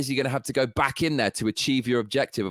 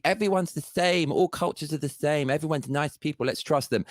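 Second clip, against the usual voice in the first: mocking naive voice; 3 semitones higher than usual. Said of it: "the left, they're so altruistic".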